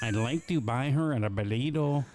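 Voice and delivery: a weak put-on Mexican accent. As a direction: lightly fake Mexican accent. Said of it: "That's the best Mexican accent I can do".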